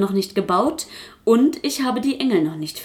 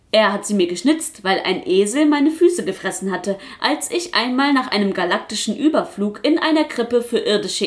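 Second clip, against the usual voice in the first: protesting puppet; 3 semitones higher than usual. Acted. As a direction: push back like a stubborn puppet. Puppet protests about boots.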